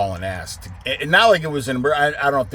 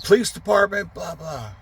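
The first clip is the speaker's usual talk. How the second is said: 1 cop shouting; 6 semitones higher than usual. Retold or imitated. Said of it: "They're like".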